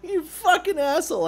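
high-pitched exasperated outburst; worked-up gamer's curse; angry cursing. Real, not acted. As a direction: lay into a teammate who spoiled it. Cursing the same teammate.

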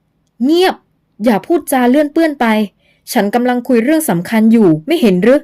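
scolding sharply. Acted. Luang scolds the girl for interrupting, sternly. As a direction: hush her with a sharp reprimand. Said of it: "คุณหลวงเผลอดุขึ้น".

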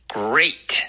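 Great drawn out with a full "ay"; curled R, full diphthong. Shown as a demonstration. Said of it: "R要卷舌".

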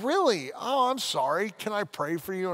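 lightly mocking cheerful missionary voice; chipper missionary. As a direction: imitate an upbeat missionary jogging up. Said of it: "a chipper missionary".

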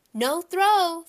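put-on loud, high toddler shout. A narrator's reading. Fudge defying his father in the theater, loud high shout. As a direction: yell it like a defiant three-year-old. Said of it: "Fudge said very loud".

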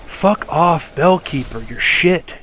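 loud, jeering insult at the enemy; angry taunt. Real, not acted. Player cursing the Bellkeeper enemy loudly. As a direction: snarl it at the Bellkeeper.

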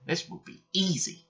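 high, breezy little engines; cocky high-voiced youngsters; confident twins. A narrator's reading. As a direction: toss it off in a high voice. Twins boast to each other.

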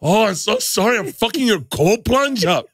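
high put-on accent slipping into mock Asian; botched mock accent. Comic as the apologetic neighbour, high accent drifting into mock Asian. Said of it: "did he just turn Asian".

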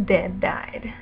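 unvoiced whisper; whispered deadpan. Real, not acted. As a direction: mutter it like a punchline under your breath. Camera died, deadpan aside.

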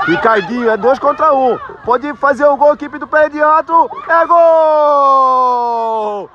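rising from quick call to a loud goal shout; building goal call. Real, not acted. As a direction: build the play up, then explode on the goal. (narração crescente até o grito de gol)

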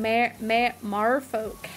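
stumbling attempt at Australian "merfolk"; Aussie accent. Streamer struggling with the word, unsure mock Aussie. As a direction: fumble the Aussie vowel in "merfolk". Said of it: "in an Aussie accent".

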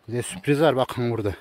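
usual speaking voice

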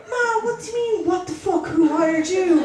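mock-indignant retort to mother; indignant daughter. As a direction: start high, come down in disbelief at Ma. Daughter challenges mother's comment.

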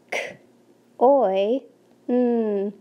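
segmenting soil sound by sound; teacher sounding out soil for kids to blend; sounding out each sound. Shown as a demonstration. Teacher sounding out a word for the class to blend. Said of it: "blend with me like we do in class".

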